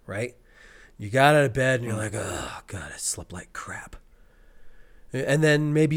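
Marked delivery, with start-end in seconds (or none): 2.2-4.0 very low, soft, voiceless groan; groggy complaint. Retold or imitated. Acting out getting out of bed unrested, hushed groggy groan. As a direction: mumble it like a poor night's sleep. Acting out waking after bad sleep.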